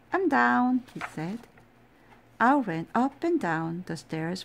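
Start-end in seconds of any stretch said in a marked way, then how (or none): 0.1-0.8 excited call. Acted. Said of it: "Owl ran down the stairs".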